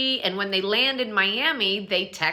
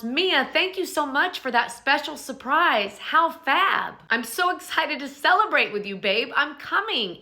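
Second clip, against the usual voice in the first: higher, bubbly sweet text read; gushing text voice; 5 semitones higher than usual. Retold or imitated. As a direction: read it like an overexcited friend. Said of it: "Stacy responds".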